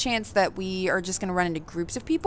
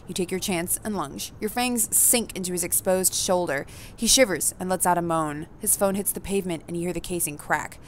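even, measured narrator read; story narration; 4 dB quieter than usual. A narrator's reading. Reading the game's narration to the audience, evenly. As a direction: tell the player what they see and feel.

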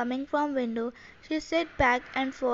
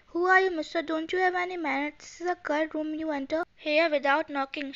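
indignant scolding; 2 semitones higher than usual. Acted. Girl scolds intruder.

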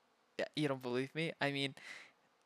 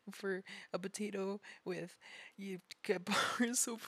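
laughing; 3 semitones higher than usual. Real, not acted. Laughing through explanation.

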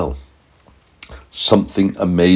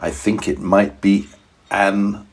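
soft, hushed voice; secretive scientist; 9 dB quieter than usual. A narrator's reading. Scientist whispers to daddy and boy, hushed. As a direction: lean in and keep it secret. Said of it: "the scientist said".

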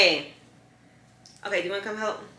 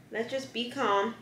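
soothing; 3 semitones higher, 7 dB quieter, slower than usual. Real, not acted. Soothing the dog during ear tape removal.

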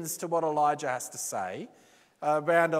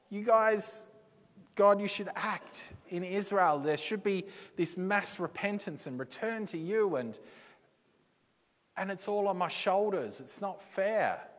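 a hammed-up whinge, higher at first; whinging Elijah; 5 semitones higher than usual. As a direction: whine like a sulking child about unfairness. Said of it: "Elijah's whinge is".

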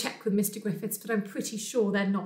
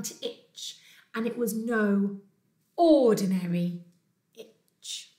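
expressive, drawn-out picture-book reading; story narration; 5 dB louder than usual. A narrator's reading. Teacher reads Itchy Bear to pupils, expressive storytelling. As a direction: read to young children, leaning on key words.

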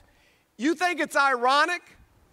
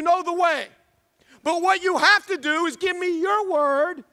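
impassioned divine promise; 4 semitones higher than usual. Acted. Preacher voices Christ's promise to believers.

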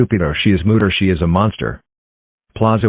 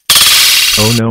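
dismayed oh no; 3 semitones higher, 6 dB louder than usual. Pretend. Helmet knocked off in fight.

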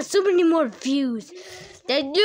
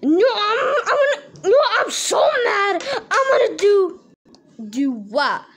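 sputtering mad; 4 semitones higher, 4 dB louder than usual. Acted. Mad puppet sputtering in rage.

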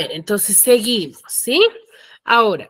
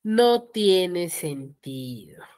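slow confirmation; 3 semitones lower, 4 dB quieter, much slower than usual. Real, not acted. Teacher confirms the students' answer.

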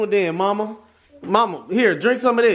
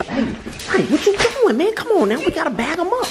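mock scolding; 10 semitones higher than usual. Playfully scolding the kids.

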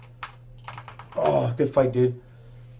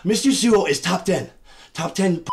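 mock moaning. Mock moaning over rival's mom.

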